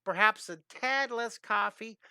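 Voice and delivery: a hint of a fussy, overly polite man; hammed-up Bob Ross. Replaying Bob Ross's gentlest scolding, in a hammed-up voice. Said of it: "that's as mean as he can get".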